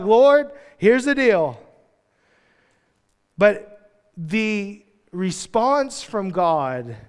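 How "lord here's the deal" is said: slow, deliberate mock deal-making; mock bargaining Elijah. Elijah bargaining with God, slow and smug. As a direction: spell out terms like a smug bargainer. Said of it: "He's like".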